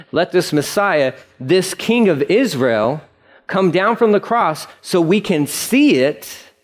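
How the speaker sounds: slow, mildly mocking delivery; sarcastic. Preacher quoting priests taunting Jesus on the cross, mildly sarcastic. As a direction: stretch it out with light sarcasm. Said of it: "please note that this is sarcasm".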